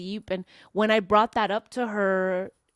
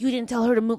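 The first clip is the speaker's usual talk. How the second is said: retold griping, a little louder; mock indignant grumble; bitching; 3 semitones higher, 5 dB louder, faster than usual. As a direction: imitate someone complaining on and on. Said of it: "she just still kept bitching".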